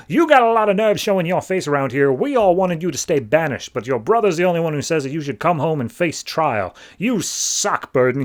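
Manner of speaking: mock a scornful villager; retold jeer at the returning outcast; hostile townsman. Hostile townsman confronting the exile.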